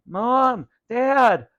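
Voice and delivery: high loud call; screaming for parents. A narrator's reading. Vinny calling his sleeping parents, high loud scream. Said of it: "Vinny screamed".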